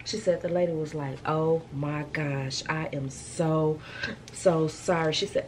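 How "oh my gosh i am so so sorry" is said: slow, drawn-out mock apology; lightly voiced shocked apology; apologetic clerk. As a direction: plead sorry slowly like the humbled clerk. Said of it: "that lady apologized almost thirty times".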